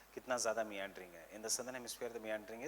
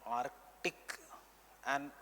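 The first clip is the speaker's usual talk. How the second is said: measured note-giving, repeating phrases for writers; teacher dictating notes for students to copy; classroom dictation; slower than usual. Real, not acted. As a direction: dictate in short chunks with long pauses.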